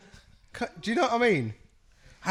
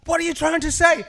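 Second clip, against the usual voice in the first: mom baffled; 12 semitones higher, 6 dB louder than usual. Retold or imitated. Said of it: "And she was like".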